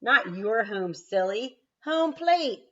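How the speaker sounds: high, loud back-and-forth calls; shouted exchange. Acted. Froggy and Frogolina shouting across the field, high and loud.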